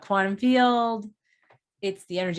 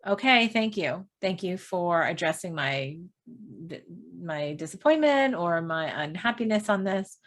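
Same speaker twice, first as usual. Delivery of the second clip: sincere thanks. Shown as a demonstration. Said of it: "with the energy of knowing that you're worth it".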